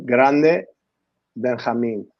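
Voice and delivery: GRANDE Benjamin said the Spanish way, with a pause between the words; Spanish vowels on "Grande Benjamin", Benjamin as "ben-ha-MEEN"; Spanish demonstration. Shown as a demonstration. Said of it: "Say it again".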